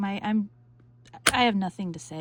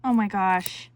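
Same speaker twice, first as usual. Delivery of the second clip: excited; 6 dB louder than usual. Real, not acted. Excited reaction to kit.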